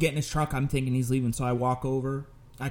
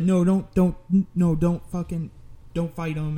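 urgent pleading; 5 semitones higher than usual. Retold or imitated. Emergency operator tells caller not to fight, urgent stammering. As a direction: imitate someone hurriedly talking him down.

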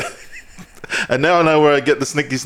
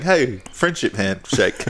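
slow mock greeting; much slower than usual. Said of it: "That's me saying".

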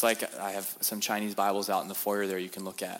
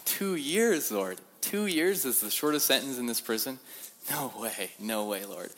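mock astonishment, pitched up then sinking; disbelief; 4 semitones higher than usual. Preacher retelling his shock at the short sentence, disbelieving.

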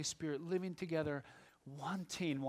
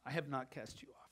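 softly; 2 semitones lower, 6 dB quieter than usual. Acted. Pastor repeating God's promise to a friend, softly. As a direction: let the repeat fall to a hush.

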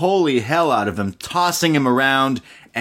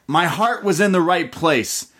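Keith Lee voice; 6 semitones higher than usual. Retold or imitated. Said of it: "And he says".

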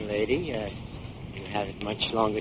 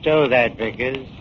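barked order to drop it; gruff command; 6 dB louder than usual. Acted. Thug silencing a frightened pawnbroker, gruff. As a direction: shut him up hard.

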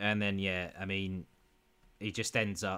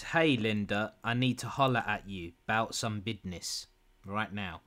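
deadpan read. Retold or imitated. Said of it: "I'll read it deadpan".

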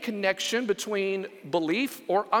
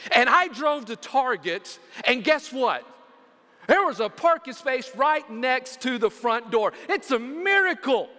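mock-amazed testimony, pitched higher toward the end; excited testimony; 5 semitones higher, 3 dB louder than usual. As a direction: act out someone thrilled by a small blessing. Acted excited parking testimony.

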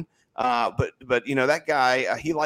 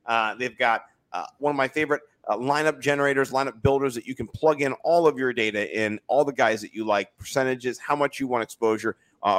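ad read. Acted. Reads sponsor ad.

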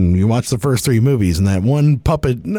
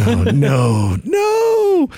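shouting; much slower than usual. Pretend. Mock conspiracy revelation.

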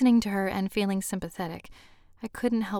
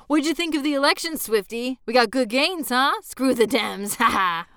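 boisterous gloating; 5 semitones higher, 5 dB louder than usual. Acted. Wyatt goading Rod about politics.

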